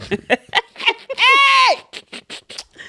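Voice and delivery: long high shriek of laughter; loud shrieking laugh. Real, not acted. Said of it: "Hey, I'm crying".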